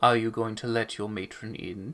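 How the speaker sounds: playful, coy delivery. Voicing a regal dragon in elf form greeting the party at the door: coy. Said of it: "with a bit of a coy smile and goes".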